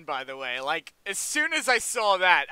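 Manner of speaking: ordinary talk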